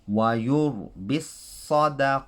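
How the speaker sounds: تلاوة القرآن; Quranic recitation. Shown as a demonstration. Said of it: "Keep it like a ta".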